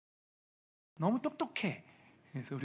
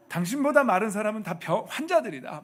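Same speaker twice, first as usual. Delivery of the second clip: pitched up, louder, hammed-up flattery; overselling the compliment to the wife; mock gushing praise; 6 semitones higher, 8 dB louder than usual. Husband gushing to his wife, hammed-up and loud.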